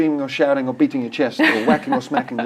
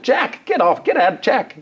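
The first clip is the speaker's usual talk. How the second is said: higher mock command to the dog; mock telling off dog; 9 semitones higher, slower than usual. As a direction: bark an order at Jack, half in jest. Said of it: "it's like".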